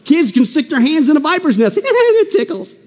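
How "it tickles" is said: laughing joke. Acted. Joking child voice.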